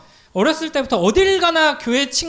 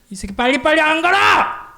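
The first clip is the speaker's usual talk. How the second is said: higher, harsh barked order at a recruit; drill instructor yell; 6 semitones higher, 3 dB louder than usual. Retold or imitated. Boot camp sergeant yelling at new recruits, harsh barked yell.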